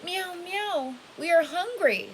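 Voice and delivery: high mewing kitty voice; crying cats. Acted. Hundreds of cats crying to the old man, high mewing. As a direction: mew it like a thirsty kitten. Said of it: "said the hundreds of cats".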